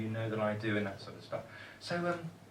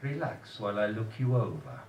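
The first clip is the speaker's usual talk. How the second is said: lightly voiced Polish dentist; a hint of a Polish accent, unhurried; low Polish voice; 3 semitones lower than usual. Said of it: "she said in her low Polish voice".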